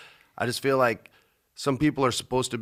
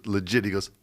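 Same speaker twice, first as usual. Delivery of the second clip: usual speaking voice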